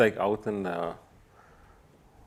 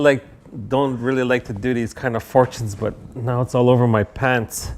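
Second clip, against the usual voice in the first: flustered fortune teller, a touch louder; embarrassed fortune teller; 5 dB louder than usual. Acted. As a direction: play a fumbling, apologetic psychic. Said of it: "Embarrassed fortune teller".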